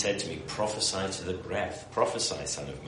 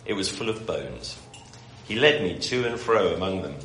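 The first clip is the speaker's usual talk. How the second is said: scripture reading. Acted. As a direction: read it out to the room. Reads Ezekiel passage aloud.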